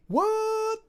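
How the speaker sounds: sudden high shocked what; surprised. Real, not acted. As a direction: genuinely caught off guard. Shocked by opponent's play.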